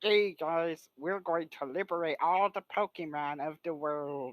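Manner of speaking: hammed-up goofy cartoon villain; put-on casual voice, anything but solemn; silly un-deep Mewtwo. Mewtwo addresses the guys, in a silly un-deep voice. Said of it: "Instead of, like, Mewtwo having a deep voice".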